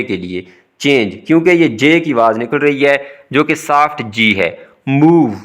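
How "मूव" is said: मूव with a long, drawn-out ऊ; long vowel. Shown as a demonstration. Teacher introducing a long vowel, मूव held long. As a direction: stretch the ऊ in मूव. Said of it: "आवाज़ को लंबा करना है".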